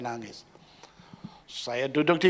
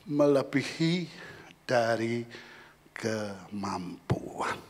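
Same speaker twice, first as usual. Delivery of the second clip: whispered point; 3 semitones lower, much slower than usual. Acted. Pastor whispers the key phrase to the congregation. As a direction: breathe the last word out slowly.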